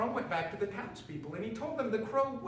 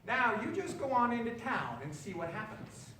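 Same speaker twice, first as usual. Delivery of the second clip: high sly witch voice; 7 semitones higher than usual. A narrator's reading. Witch sending the frog to town, high and sly. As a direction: send him off with a hidden grin. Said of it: "witch laughing up her flappy sleeve".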